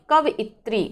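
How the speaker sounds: कवियत्री repeated as the model for students. Shown as a demonstration. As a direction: hand over कवियत्री for students to copy. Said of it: "ऐसे ही बोलिए".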